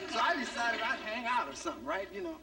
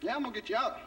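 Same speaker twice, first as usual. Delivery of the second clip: father's attitude. Retold or imitated. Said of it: "he had an attitude like".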